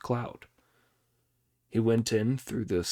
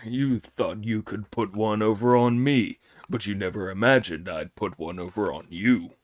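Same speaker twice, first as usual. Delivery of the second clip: gloating Pig; 2 semitones lower than usual. Acted. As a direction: rub it in smugly. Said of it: "Pig was falling about with laughter".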